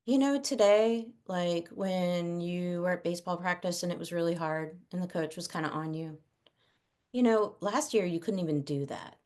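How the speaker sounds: soft, gentle words of thanks to a son; quiet, heartfelt appreciation; tender praise to child. Retold or imitated. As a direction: speak softly and sincerely to your kid.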